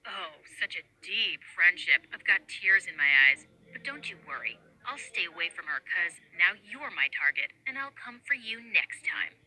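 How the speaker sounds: low, smug mock-menacing bully voice. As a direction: sneer it, playing the tough guy. Bully mocks friendship, threatens.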